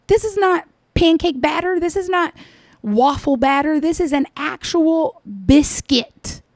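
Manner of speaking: exasperated. Real, not acted. Ranting about a cookie mixup.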